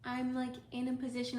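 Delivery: ordinary delivery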